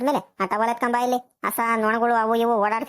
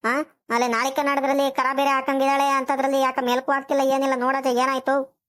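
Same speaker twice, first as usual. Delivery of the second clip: mildly alarmed, raised-pitch fretting; fussing loudly; 3 semitones higher than usual. Acted. Wife fretting to her husband about the listless pregnant cow, agitated. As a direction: fret urgently over what is wrong. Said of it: "ಹಿಂಗ್ ಬಾಯ್ ಬಾಯ್ ಬಟ್ಕೊಂಡ್ತೀಯಾ".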